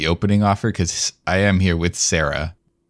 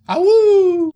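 wolf howl; 6 dB louder than usual. Pretend. Howl cue after "bug.

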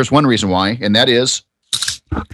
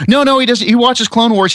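imitating the dad; 9 semitones higher than usual. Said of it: "It's like".

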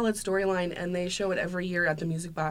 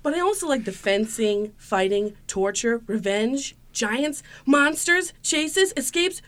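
put-on excited kid; 7 semitones higher, 4 dB louder, slower than usual. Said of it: "you're gonna play grandson".

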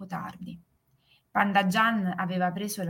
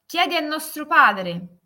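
higher, dismissive brother; character voice; 7 semitones higher, 4 dB louder than usual. A narrator's reading. Brother sending his sister back to their father, higher voice. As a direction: pass her off with a lifted voice.

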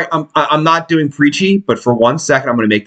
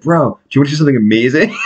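excited friend; much faster than usual. Retold or imitated. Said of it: "he's like".

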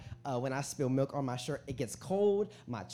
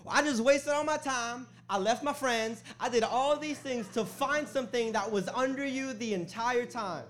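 high, louder, drawn-out mock indignation; exasperated outburst; 8 semitones higher, 4 dB louder than usual. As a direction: complain to mom as the wronged son. Acted outburst at mom over controller.

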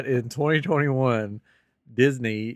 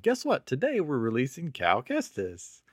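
much higher, pitched-up announcer imitation; mock excited announcement; 4 semitones higher, slower than usual. Park staff announce a release, mock excited. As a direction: pretend to break big news.

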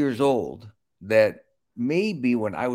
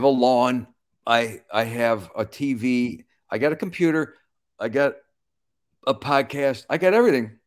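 escalating mock boast; 4 semitones higher, 4 dB louder than usual. Boasting list of possessions, escalating.

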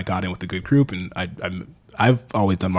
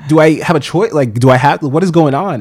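louder and higher, laughing as he tells it; laughing disbelief; 8 semitones higher, 9 dB louder than usual. Real, not acted. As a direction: laugh through the outrage, voice up.

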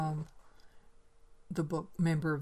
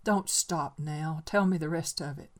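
put-on boy presses the old man to continue; commanding; 6 dB louder than usual. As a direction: insist he go on. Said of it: "a note of command came into his voice".

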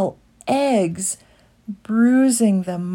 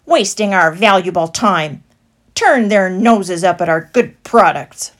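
louder complaining crowd voice; grumbling traders; 11 dB louder than usual. A narrator's reading. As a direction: moan about the mice. Stallholders complaining.

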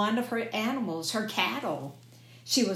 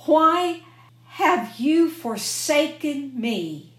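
crying out to God, louder and higher; loud anguished cry; 7 semitones higher, 6 dB louder, slower than usual. Acted. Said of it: "Jesus cried out in a loud voice".

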